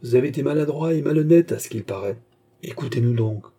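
self-important. Acted. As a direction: lecture them full of his own importance. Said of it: "dit Ducorneau avec importance".

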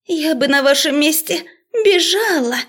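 high anxious urging; frightened warning. A narrator's reading. Professor warning the magister, frightened. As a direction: urge him to flee.

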